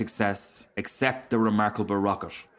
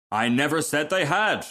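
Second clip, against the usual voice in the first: higher-pitched, indignant retort; self-important rocket, retorting; 5 semitones higher than usual. Acted. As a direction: correct them with wounded self-importance.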